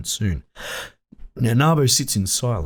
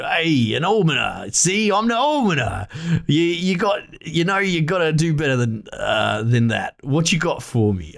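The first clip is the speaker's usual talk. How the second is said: lightly voiced Nabo, a touch higher, scoffing; merchant's refusal; 4 semitones higher than usual. Nabo scoffing at the discount request, lightly voiced. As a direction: turn down the deal with a smirk.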